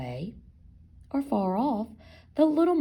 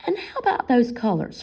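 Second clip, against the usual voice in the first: anxious; 4 semitones higher, 5 dB louder, faster than usual. Acted. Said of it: "they asked anxiously".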